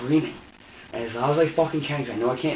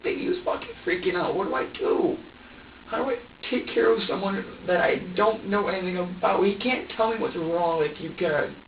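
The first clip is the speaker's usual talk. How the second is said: high, distressed pleading; overwhelmed and upset, asking for understanding; helpless plea; 5 semitones higher than usual. Retold or imitated. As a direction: plead helplessly, voice strained upward. Helpless plea retold while upset.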